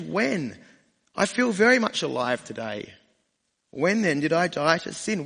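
puzzled reader. Pretend. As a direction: quiz Paul like a doubting reader. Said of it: "fire a question back at Paul".

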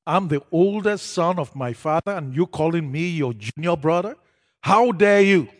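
loud, rising to a furious shout of offended pride; indignant outburst. Retold or imitated. Eldest son snapping back at the pastor, furious and loud. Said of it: "Oh, now that did it".

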